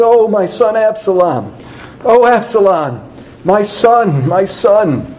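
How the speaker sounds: high-pitched grieving wail, moderately loud; loud lamenting cry. A narrator's reading. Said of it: "the king cried with a loud voice".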